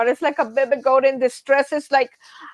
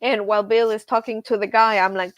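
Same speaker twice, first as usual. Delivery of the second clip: ordinary talk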